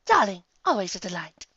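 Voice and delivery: bored politeness; high posh eye-roll. Acted. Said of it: "with a roll of her eyes".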